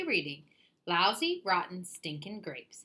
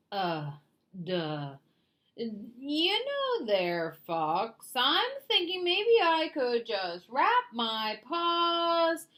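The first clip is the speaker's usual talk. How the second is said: dim bear voice; 4 semitones higher, slower than usual. Acted. Bear voiced thinking slowly.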